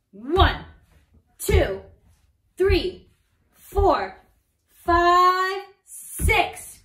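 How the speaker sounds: loud counting. Shown as a demonstration. Teacher leads the class stomping six times, counted loud. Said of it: "stomp your feet six times".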